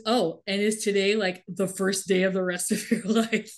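mildly sarcastic retold quote. Recapper quotes his jab back at her, lightly sarcastic. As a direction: put a touch of sarcasm on it. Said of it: "He sarcastically says".

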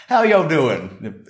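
put-on high, drawn-out Texan accent; Texan drawl accent. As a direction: imitate a gregarious Texan lady's drawl. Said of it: "exactly that accent".

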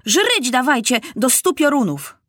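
high-pitched soldierly demand; imperious boy king bellowing; bellowed order. A narrator's reading. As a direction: thunder it out like a rough trooper. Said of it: "huknął Maciuś".

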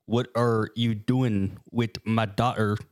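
very slow, word-by-word recital; deliberate literal reading. Acted. Storyteller reads the creepypasta exactly as written, slow and deliberate. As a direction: stretch each word of the clumsy text. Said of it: "I'm reading it exactly as it's written".

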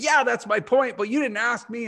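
hammed-up indignant complaining, pitch climbing; retold pissed passenger. Angry passenger scolding the flight attendant, mock outraged whine. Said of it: "she's totally on it".

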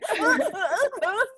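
high-pitched mock sobs, half laughing; playful fake weeping; imitated sobbing. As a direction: act out crying in the toilet. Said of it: "aku nangisin di toilet".

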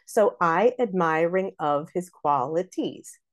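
slow, even da-DUM beat; regular iambs. Shown as a demonstration. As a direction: scan the line foot by foot. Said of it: "Back on track, perfect line".

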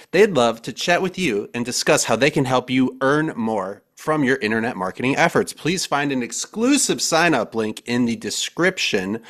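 punchy announcer-style host read with stressed key words; podcast intro read. Acted. Host welcoming listeners and introducing sponsor and guests, podcast intro read.

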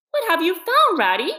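eager question. A narrator's reading. Mole curious, calling out.

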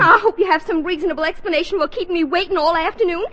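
put-on fast, rising tirade of a stood-up girlfriend; indignant girlfriend scolding at speed; angry scolding. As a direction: tear into him without a breath. Veronica scolds Archie for standing her up.

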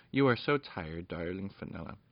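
mother gently calming her tired daughter; tender mother. Acted. Mother puts tired child to bed.

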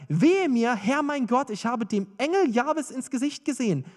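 crying out. Acted. Gideon to God on seeing the angel, crying out. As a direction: call out in alarm, mildly dramatized. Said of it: "rief er".

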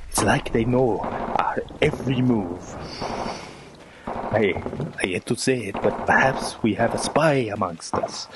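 grave German officer voice; brief the men in German accent. Acted. German officer comedy sketch.

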